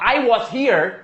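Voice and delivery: "was" with open O and S; common learner "was". Shown as a demonstration. Teacher reassuring learners about their version, "was" as "wos". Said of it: "Se você falar".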